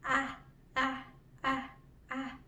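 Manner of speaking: "ah" as the short vowel at the start of apple; short A sound. Shown as a demonstration. Teacher shows puppet friend the letter A, "ah" in short separate sounds. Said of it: "show him how to say it correctly".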